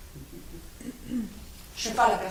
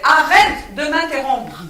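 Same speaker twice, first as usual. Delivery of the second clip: loud, slow, hammering each word; angry outburst; 5 semitones higher, 9 dB louder, slower than usual. Acted. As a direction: cut him off, fed up. Heated argument between partners.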